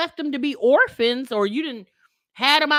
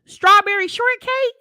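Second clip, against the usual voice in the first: loud mocking suggestion, thrown out louder; sarcastic; 4 semitones higher, 6 dB louder than usual. Real, not acted. Creator mocks the mother's complaint, loud sarcastic scoff. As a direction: toss the silly name out with a loud scoff.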